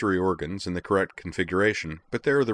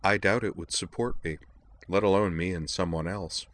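deadpan. Acted. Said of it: "and deadpanned".

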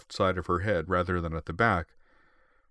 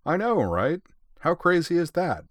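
excited; 10 semitones higher, 5 dB louder than usual. A narrator's reading. Leon's excited follow-up.

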